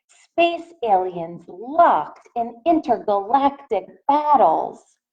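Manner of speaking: gentle picture-book read-aloud voice; reading to children. A narrator's reading. Teacher reading a picture book to her class, in a gentle read-aloud voice. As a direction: read it out to the little ones, asking.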